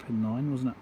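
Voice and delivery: ordinary talk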